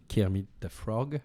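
Kermit the Frog said slowly in an English accent, the frog lifted with a rise. Shown as a demonstration. Guest names the Muppets partner on a podcast, slow English accent. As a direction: say the name the English way, unhurried. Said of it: "avec un bel accent anglais".

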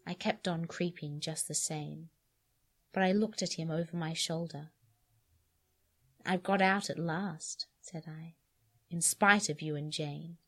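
steady, measured reading of an eerie first-person tale; story narration. A narrator's reading. Reader narrates a creepy story to a friend, steady and measured. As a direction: read it like a calm woman unravelling.

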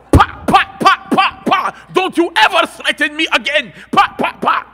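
put-on loud, high cries of a beaten boy; kid howling. Father spanking his son on camera, loud high howls. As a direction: howl under the spanking. Dad beating, boy crying out.

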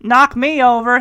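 lightly swaggering cowboy impression; a hint of movie-cowboy bravado; John Wayne. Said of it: "he's doing his John Wayne impression".

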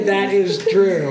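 "That is true" slowed down, words kept apart; clarified repeat. Shown as a demonstration. Player explaining what he meant, "That is true" slow and distinct. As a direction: say "That is true" slowly so nobody mishears. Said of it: "I meant to say".

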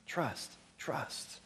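trust, trust whispered, voice dropped away; whispered repeat. Shown as a demonstration. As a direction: let the word trust fade to a whisper. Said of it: "the big word that keeps coming is trust".

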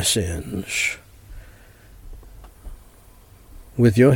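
prayer said phrase by phrase with long pauses; short phrases with pauses. Shown as a demonstration. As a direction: pause after each phrase so they can repeat. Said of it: "phrase by phrase".

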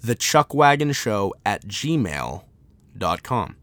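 repeating the email address slowly; slow dictation repeat. Shown as a demonstration. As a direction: read it again slowly. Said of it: "Not A O L".

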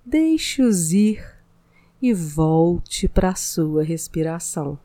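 slow, calm meditation guide; soothing spa voice, unhurried pauses; mindfulness meditation. Acted. Leads a mindfulness exercise.

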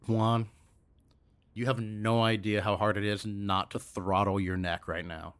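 low, quiet, barely contained threat; acted simmering anger under tight control; restrained anger. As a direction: hold the fury down, low and soft. Holding back rage at Juan.

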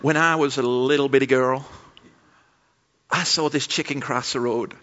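lightly imitated southern US storyteller; mock southern US testimony; southern US accent. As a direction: tell it with a put-on American South accent. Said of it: "had this southern U S accent".

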